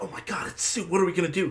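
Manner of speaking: frightened, hushed whisper. Retelling a scene where two guys whisper in panic: imitating a panicked whisper. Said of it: "these two guys are whispering at each other, like, panicking".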